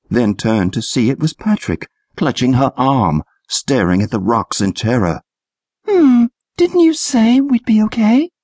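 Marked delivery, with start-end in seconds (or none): 5.9-8.3 put-on high girl voice, teasing. A narrator's reading. Trish teasing Patrick who clutches her arm, high voice. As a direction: needle him in a high voice. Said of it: "she asked".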